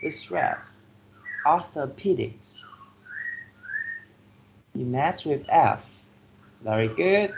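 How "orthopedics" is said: orthopedics stressed on its third syllable, PE. Shown as a demonstration. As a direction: model orthopedics as or-tho-PE-dics. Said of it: "the third syllable receives the stress".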